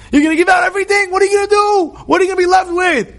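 lightly voiced worried advisors, pressing hard; pleading advisors. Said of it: "his advisors are telling him".

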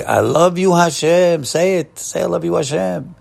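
high-pitched, heartfelt declaration of love; fervent declaration. Shown as a demonstration. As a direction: lift the voice high, urging others to say it. Models declaring love to God.

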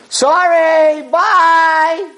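high, singsong yelled farewell; gleeful brush-off. Acted. Yaakov refusing his stranded brother a seat, yelled brush-off. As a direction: call it out loud and drawn out.

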